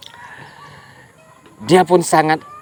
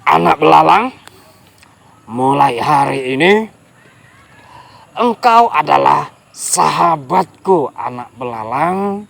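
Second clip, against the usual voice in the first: relieved crocodile. Acted. Crocodile declares friendship.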